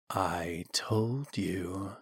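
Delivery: very slow, soft sinister voice; drawn-out, hushed hiss. A narrator's reading. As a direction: slither it out like a voice in the mind. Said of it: "it hissed".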